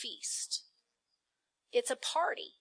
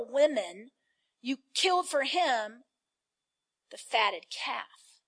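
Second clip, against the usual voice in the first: bitter; 4 dB louder, slower than usual. Acted. Elder son reproaches father.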